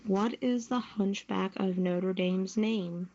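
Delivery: normal talking voice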